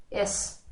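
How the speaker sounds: "S" with a short, narrow E before the s. Shown as a demonstration. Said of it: "The sound E is short and narrow".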